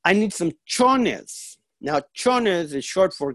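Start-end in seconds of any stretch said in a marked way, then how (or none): 0.0-1.6 imitating mom, high and drawn out; coaxing mother. Mother in the car asks her son for underwear, coaxing. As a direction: play mom asking a favor, slowing at the end. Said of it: "she goes".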